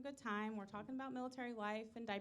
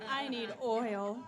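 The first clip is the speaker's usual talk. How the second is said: rusty tin man; 8 dB louder, much slower than usual. Pretend. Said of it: "doing the rusty tin man".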